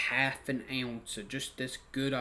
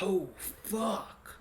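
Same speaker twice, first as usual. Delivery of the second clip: yelling at myself; 6 semitones higher, slower than usual. Retold or imitated. Cursing himself as the blue police lights show up, retold yell. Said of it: "I'm, I'm yelling at myself".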